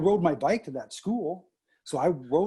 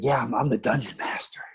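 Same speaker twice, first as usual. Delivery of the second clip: voiceless whisper of "I'm the dungeon master"; 2 semitones lower than usual. Retold or imitated. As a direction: whisper it proudly so the players won't hear. Son whispering during game.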